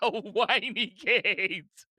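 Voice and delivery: slow, savouring each word with amusement; mocking drawl. Host mockingly repeats the nickname, slowly savoured. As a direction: drag out the insult, relishing it.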